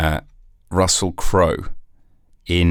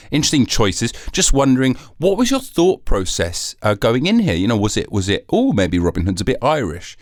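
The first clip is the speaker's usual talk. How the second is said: mock interviewer; 4 semitones higher than usual. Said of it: "more like".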